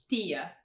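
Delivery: "tia" with tongue pressed flat on the teeth; Portuguese T. Shown as a demonstration. Teacher contrasting with English, "tia" with dental T. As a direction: squash the T of "tia" against the teeth. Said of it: "como no português".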